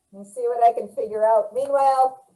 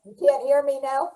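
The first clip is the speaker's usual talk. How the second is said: muffled mic sound; talking through a muffled mic. Real, not acted. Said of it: "Yes, but you sound muffled".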